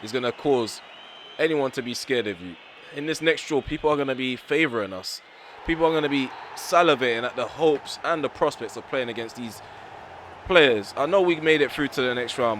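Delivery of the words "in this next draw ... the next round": louder, heated tirade; heated rant. Real, not acted. Manager blasting his players' performance, heated rant. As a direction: vent the fury at the squad. Ranting about opponents salivating.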